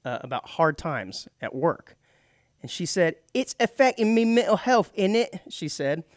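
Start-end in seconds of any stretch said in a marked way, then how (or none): 3.3-5.4 louder, higher mock cockney; cockney accent. Tech worker telling her boss about hard times, mock cockney accent. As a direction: slip into a cheeky cockney lilt. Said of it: "the more cockney I become".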